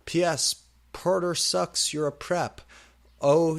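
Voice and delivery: high, loud snippy rant; ranting teen author. Acted. Author scolding readers who flame her, snippy.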